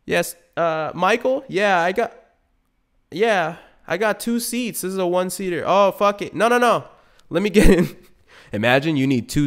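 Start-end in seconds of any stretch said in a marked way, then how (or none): 0.0-8.0 high, loud excited stammer; flustered rider. Acted. Rider meeting a Lambo Uber, high and excited. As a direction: talk himself into the one-seater.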